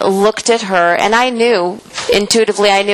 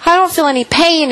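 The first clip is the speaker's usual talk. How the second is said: much higher-pitched imitation of a crying friend; retold tearful relief; 8 semitones higher than usual. Friend reports no pain, imitated tearful relief. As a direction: lightly imitate tearful disbelief, voice lifted high. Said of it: "She was crying".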